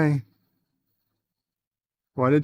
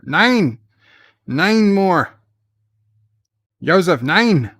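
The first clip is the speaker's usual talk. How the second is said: excited; 6 semitones higher, 6 dB louder, slower than usual. Real, not acted. Excited there are nine more.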